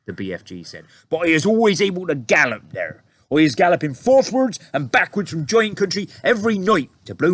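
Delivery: high, loud eager giant; BFG giant voice. A narrator's reading. BFG telling the soldiers his plan, eager high voice. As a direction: explain like a friendly giant.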